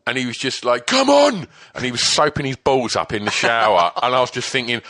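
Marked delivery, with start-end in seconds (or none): 0.9-1.5 high, loud, drawn-out cheer; retold rousing shout. Club owner shakes off hangover in shower, rousing shout. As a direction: imitate a man suddenly full of beans.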